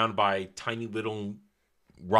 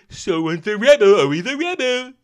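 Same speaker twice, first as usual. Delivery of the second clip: high mock laughing cry; 14 semitones higher, 9 dB louder than usual. Real, not acted.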